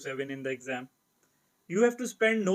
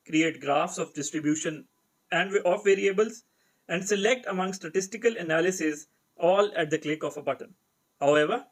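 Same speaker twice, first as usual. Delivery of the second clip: slow, careful read-aloud of an exam passage; model read-aloud; slower than usual. Shown as a demonstration. Teacher shows students a sample exam answer, slow and careful reading. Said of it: "Let's try one example".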